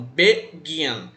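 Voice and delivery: "begin" split, weight landing on "gin"; stress on second syllable. Shown as a demonstration. Teacher repeats the verb for pupils, stress on "gin". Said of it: "está no gin".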